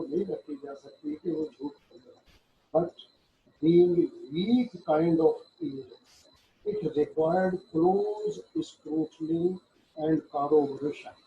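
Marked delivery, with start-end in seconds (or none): 2.7-11.2 slow, deliberate reading of legal text; slow statute reading. Shown as a demonstration. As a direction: read the act slowly, word by word, as if dictating. Reads judgment text aloud. (धीमे-धीमे क़ानून की धारा पढ़ना)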